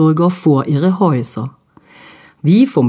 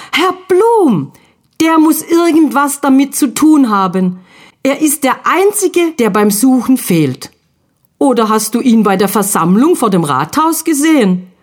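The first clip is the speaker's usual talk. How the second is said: excited call; 6 semitones higher than usual. Acted. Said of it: "auffuhr und rief".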